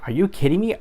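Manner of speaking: like someone just cut you off; exasperated disbelief. Retold or imitated. Driver reacting to traffic, exasperated disbelief.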